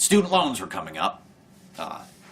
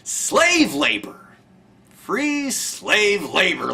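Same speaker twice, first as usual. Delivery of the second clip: indignant; 9 semitones higher, 4 dB louder, much slower than usual. Real, not acted. Angry denunciation.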